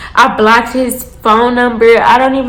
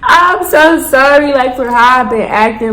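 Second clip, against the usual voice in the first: pleading apology; 2 semitones higher than usual. Retold or imitated. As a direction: plead with him to take you back. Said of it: "I call kid".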